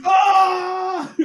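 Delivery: high, drawn-out mock scream; straining yell. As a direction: strain as if holding a huge weight. Imitates Thor straining to hold up.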